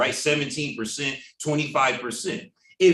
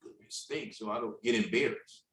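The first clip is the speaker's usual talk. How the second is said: loving heads-up; 5 dB quieter than usual. Retold or imitated. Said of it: "But loving would be".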